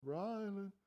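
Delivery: mysterious calling voice. Acted. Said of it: "you'd hear a voice in your bed and say".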